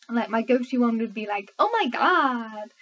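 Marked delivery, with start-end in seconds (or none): 1.6-2.7 put-on slow, drawn-out Valley Girl American accent. Shown as a demonstration. Brit showing her go-to American accent, mock Valley Girl. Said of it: "like, Valley Girl type thing".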